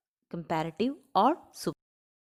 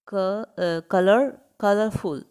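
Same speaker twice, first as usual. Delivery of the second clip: building "colorful" up in pieces, with pauses; breaking the word up; 4 dB louder than usual. Shown as a demonstration. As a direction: sound out "colorful" bit by bit, hesitating. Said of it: "Break the word".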